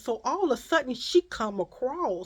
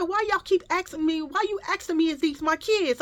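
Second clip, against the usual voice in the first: retold exasperation; 8 semitones higher than usual. Retold argument with second woman.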